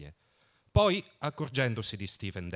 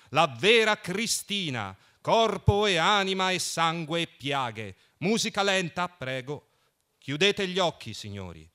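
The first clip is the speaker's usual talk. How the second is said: high, loud mock sermon; mock priest addressing the faithful; preacher's tone; 6 semitones higher, 7 dB louder than usual. A narrator's reading. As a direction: preach it from the pulpit, hammed-up. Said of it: "con tono da predicatori".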